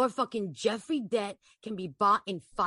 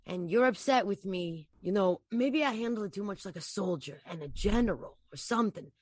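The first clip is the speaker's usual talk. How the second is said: Anthony, falsely apologetic. Acted.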